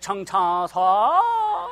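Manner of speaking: hammed-up mock Chinese with a drawn-out last syllable. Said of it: "then Chinese was just".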